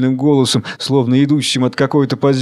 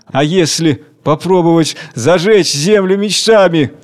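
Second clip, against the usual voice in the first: raised, wondering suggestion; dreamy; 4 semitones higher than usual. Acted. Second worker suggests another path, dreamy. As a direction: float the idea like a dream. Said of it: "Мечтательно".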